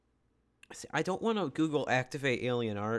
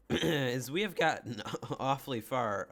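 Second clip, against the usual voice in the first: voice crack. Real, not acted. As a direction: voice cracking mid-sentence. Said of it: "that was quite the voice crack".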